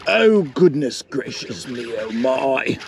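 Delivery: light put-on British gent, slowed; a playful hint of a British accent; slow, lightly hammed British accent; mock British accent. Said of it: "I just turned into a British man".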